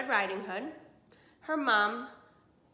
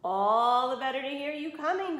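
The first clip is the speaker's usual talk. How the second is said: tough grandma; 5 semitones higher, 5 dB louder than usual. Acted. Grandma answering the wolf firmly.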